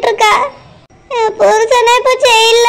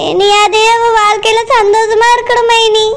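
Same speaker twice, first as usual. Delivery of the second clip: tearful plea; 2 semitones lower than usual. Acted. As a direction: voice thick with tears, pleading. Mother pleads for her daughter.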